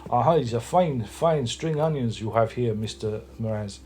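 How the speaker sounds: hammed-up French accent, drawn-out words; terrible French accent. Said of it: "that's a terrible French accent".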